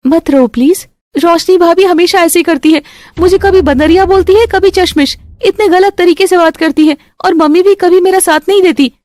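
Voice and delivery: high, lightly tearful complaints; upset young sister-in-law. Acted. Isha complaining to Shalini after crying, high and a touch tearful. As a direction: pour out the hurt.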